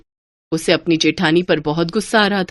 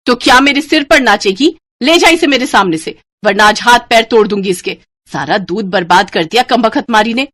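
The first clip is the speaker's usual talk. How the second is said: angry rant; 3 semitones higher, 4 dB louder than usual. Acted. Sister-in-law rages back.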